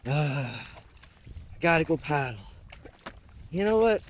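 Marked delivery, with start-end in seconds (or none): 0.1-2.4 low, drawn-out reluctant sigh; slow, softer, dragging your feet; reluctant groan. Retold or imitated. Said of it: "That's a stupid way of thinking".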